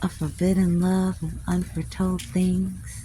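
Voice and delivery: put-on line of poetry in a southern accent. Savoring a poem about forbidden love, southern accent. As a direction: give the verse a Southern US accent. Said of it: "say it with a southern accent".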